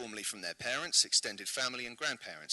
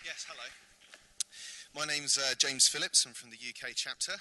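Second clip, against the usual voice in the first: breathless after running; puffing, winded, still catching breath; 2 semitones higher than usual. Real, not acted. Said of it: "Slightly out of breath".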